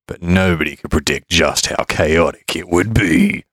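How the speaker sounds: movie trailer narration, building drama; dramatic announcer voice. Acted. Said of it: "dramatic pronouncer voice".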